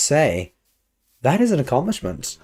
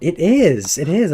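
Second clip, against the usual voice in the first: excited; 4 semitones higher, 5 dB louder, slower than usual. Real, not acted. Excited cheering for author.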